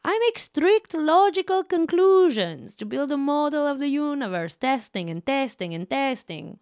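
put-on high, loud Russian accent. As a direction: play it as a Russian villain. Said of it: "Yeah, I was getting Russian".

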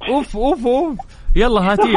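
excited. Real, not acted. Host hypes the countdown question.

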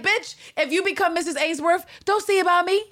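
high, sassy mock voice; sassy Anne Lister. Anne telling Ann Walker off, high sassy mock voice. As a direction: give it the diva sneer, high up. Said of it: "She was like".

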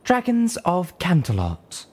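slow, loud, high magnified address; booming. Acted. Velvet Remedy addresses the Canterlot dragons, slow and booming. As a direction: boom it out majestically. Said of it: "Her voice boomed".

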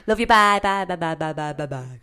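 loud then fading byes; trailing goodbyes. Shown as a demonstration. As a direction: bye bye fading away. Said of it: "how do you say goodbye".

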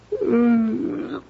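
drowsy yawning hum; sleepy yawn. Acted. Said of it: "I don't know why I'm yawning".

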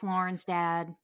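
ordinary talk, nothing marked

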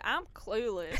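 put-on southern accent slipping into the quote; botched accent of a singer. Co-host quoting a singer to the other host, southern accent. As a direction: attempt an Australian singer, land in a southern drawl. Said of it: "That's not what her accent, that was a southern accent".

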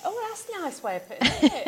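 slipping into Cockney. Real, not acted. Guest admiring friend's saying about the nose, slipping into Cockney. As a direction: let a touch of Cockney creep in. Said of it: "I've just got all cockney".

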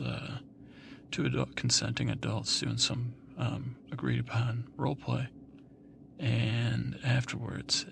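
high-pitched put-on Australian sweetheart; hammed-up falsetto role-play voice; Sandy from Grease. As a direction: coo it in a high falsetto to a lover. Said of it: "it's Sandy".

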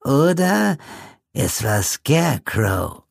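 put-on very high, slow reedy old man; ominous old man, slow and thin; high creepy old codger, drawn out; reedy old Pete. A narrator's reading. Pete's voice.

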